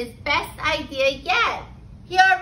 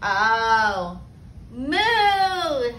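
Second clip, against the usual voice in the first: cow's moo; 2 semitones lower than usual. A narrator's reading. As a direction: moo like a storybook cow. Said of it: "said Cow".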